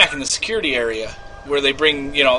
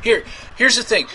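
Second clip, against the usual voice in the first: flustered; 3 dB louder than usual. Acted. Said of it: "I will play me".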